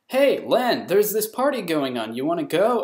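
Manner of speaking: mock-chirpy friend calling over; eager invitation. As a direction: call out brightly to a pal. Retold friend's cheery invitation.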